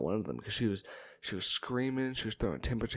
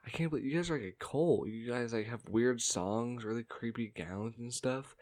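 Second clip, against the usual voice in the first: taunting sister; 3 semitones higher than usual. Retold or imitated. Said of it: "my sister goes".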